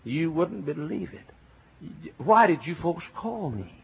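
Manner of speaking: hammed-up broad Texas drawl; old thick Texas accent. Preacher mocking his younger self's heavy Texas accent. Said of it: "You would not believe my accent".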